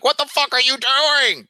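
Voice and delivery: shouting at them. Acted. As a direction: jolt the frozen men awake. Snapping frozen guys out.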